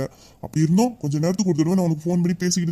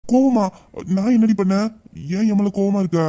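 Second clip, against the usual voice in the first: surprised echo; 4 semitones higher than usual. Acted. Husband hears she is angry.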